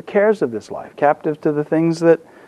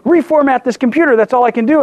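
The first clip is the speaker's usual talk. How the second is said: retold frustration; 5 semitones higher, faster than usual. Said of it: "I'm getting frustrated and angry".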